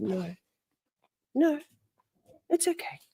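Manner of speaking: hushed, halting protective reply; quiet little no-thanks, with pauses; retold soft refusal. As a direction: decline very softly, clutching something precious. Retold reluctance to hand dog over.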